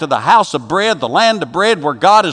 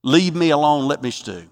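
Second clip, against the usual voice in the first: bitter sulking. Acted. Naomi wanting to stew alone, sullenly bitter. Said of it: "I'm bitter".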